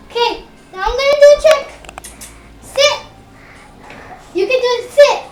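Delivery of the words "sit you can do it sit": firm dog commands. Real, not acted. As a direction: tell the dog to sit, firmly. Child commanding dog to sit.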